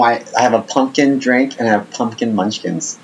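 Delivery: talking while chewing; words round a bite of food; mouth full. Real, not acted. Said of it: "Can you hear me chewing?".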